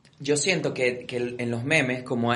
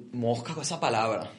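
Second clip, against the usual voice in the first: mock warning. Quoting a superstitious friend.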